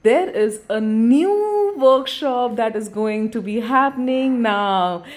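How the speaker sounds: drawn-out breaking-news opening; news announcer. Acted. Vlogger announcing a new workshop like breaking news.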